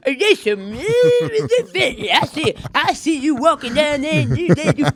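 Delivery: hammed-up African American accent with laughs. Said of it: "That's my black voice".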